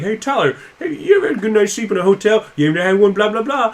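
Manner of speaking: high, fast pitchman voice; ad read voice. Retold or imitated. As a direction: sell it like a podcast ad. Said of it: "usually an ad read for a podcast is like".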